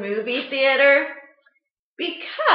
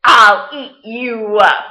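Max's defiant shout; 3 semitones lower, 10 dB louder than usual. Acted. Max's defiant line in story.

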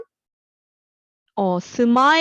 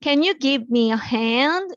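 slow, clear teacher model of the sentence; slow model reading; 3 semitones higher, much slower than usual. Shown as a demonstration. Teacher modelling a phrase for students, slow and clear. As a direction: spell it out slowly for the class. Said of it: "도와주다라는 의미로 give a hand가 있어요".

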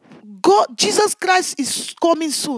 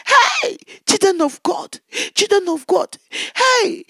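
raised pleading call to the people; anguished calling out to the congregation; 4 semitones higher, slower than usual. Retold or imitated. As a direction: cry out to them, half shouting. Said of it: "I said".

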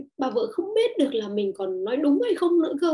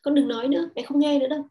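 dismissive mother, louder; 3 semitones higher, 4 dB louder than usual. Retold or imitated. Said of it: "ta nghe mẹ ta nói cái câu đấy".

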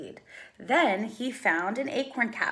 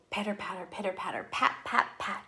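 soft rain sounds; 3 semitones lower, 7 dB quieter, faster than usual. A narrator's reading. Rain sound read softly.

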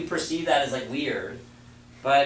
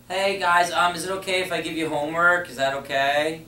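timid teacher; 3 semitones higher than usual. Retold or imitated. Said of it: "Imagine as a school teacher".

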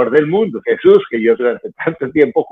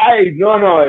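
anguished cry; 8 semitones higher, 4 dB louder, slower than usual. Retold or imitated. Acting anguish, cry shout.

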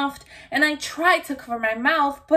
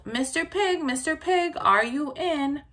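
higher call through the door; 5 semitones higher than usual. Acted. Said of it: "I called".

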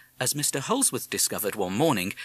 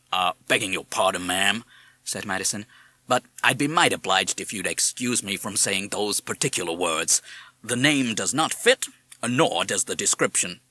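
American parrot voice; 3 semitones lower than usual. Acted. Madison politely declines.

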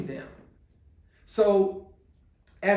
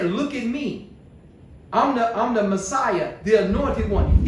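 louder, showy self-proclaiming, building to the end; preacher mocking a boastful Jesus, building louder; mock boasting; 5 dB louder than usual. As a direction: brag like a showoff Messiah. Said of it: "He didn't say".

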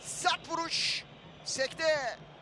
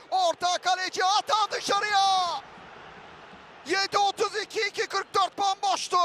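excited commentator shout; 3 semitones higher than usual. Real, not acted. Late miss, shouted.

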